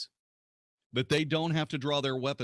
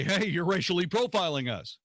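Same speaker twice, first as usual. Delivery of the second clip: raised-pitch quoted complaint; mock protest; 5 semitones higher than usual. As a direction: call it out like an aggrieved objector. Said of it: "will say".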